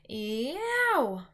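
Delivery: a sleeping giant howling in his nightmare; loud pained howl; roar. A narrator's reading. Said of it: "roared the flesh lump eater".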